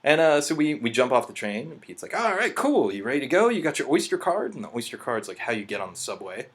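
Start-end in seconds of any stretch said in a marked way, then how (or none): 2.2-4.5 imitating Pete. Pete's lines voiced in story.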